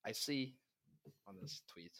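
speaking away from the mic; moving handheld mic. Real, not acted. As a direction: voice fading off mic. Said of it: "put the mic closer to your mouth".

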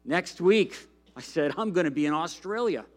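lively storybook reading to a congregation; animated read-aloud of a kids' story; reading a children's book. Acted. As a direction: read it like a picture book to kids.

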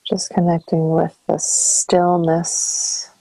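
calm meditation guide, long pauses between phrases; guided meditation. Acted. Counselor guiding listeners into breath and stillness, calm meditation voice. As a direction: ease them through each breath, leaving space after phrases.

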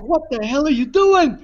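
imitating an annoyed lady; indignant retort. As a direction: snap at a clumsy dance partner. Tango partner reacts to kick.

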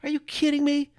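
high, scoffing everyman outburst; fed-up regular guy. Retold or imitated. Regular guy hearing stupid policy news, high indignant scoff. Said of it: "and you hear this and you go".

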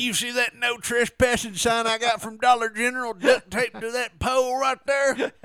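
high, loud bragging hick voice; belligerent redneck. Pretend. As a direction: brag like a proud drunk hick. Playing redneck homeowner.

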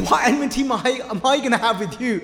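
laughing. Retold or imitated. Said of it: "smiling and laughing".

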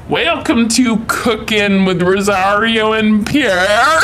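a hint of French accent in the welcome; mock French intro. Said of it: "translate the billboard for Pierre".

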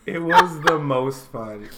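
coughing between words; husky voice after coughing; coughing fit. Real, not acted. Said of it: "Sorry about all the coughing".

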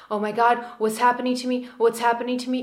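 a touch of mock panic, a bit hurried; frazzled inner talk. Shown as a demonstration. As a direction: play the ego lightly freaking out. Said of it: "from really frazzled inner talk".

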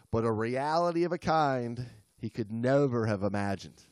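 measured storytelling read; story narration. A narrator's reading. Reads the story aloud.

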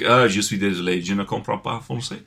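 French said in a plain English accent; sloppy English-accent French. Shown as a demonstration. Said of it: "if I'm like".

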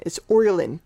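"Ireland" with an Irish oy vowel up front; Irish accent. Shown as a demonstration. Showing off the one word they can do, Irish accent. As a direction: say "Ireland" as OY-lund, Irish style. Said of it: "I could say Ireland like an Irish person".

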